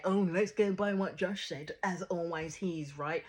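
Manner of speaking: mildly mocking imitation of sarcasm; retold sarcasm. Vlogger quoting Joey's dig at what Josh said, mildly sarcastic. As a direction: quote him with a touch of sarcasm, easing off toward the end. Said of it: "had to be really sarcastic".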